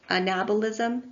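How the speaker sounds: "anabolism" stressed on NAB, a-NAB-olism; second-syllable stress. Shown as a demonstration. Lecturer showing students the correct word, anabolism stressed on NAB. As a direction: say "anabolism" as uh-NAB-uh-liz-um, ending on a rise. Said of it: "the emphasis on the second syllable".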